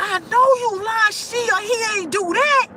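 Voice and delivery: high scoffing voice; mock indignant uncle. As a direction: squeak out the disbelief like he's being lied to. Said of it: "He was just like".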